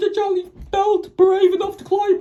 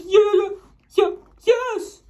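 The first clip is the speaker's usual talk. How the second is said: quivering; 2 semitones higher than usual. Acted. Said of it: "quivered and shook".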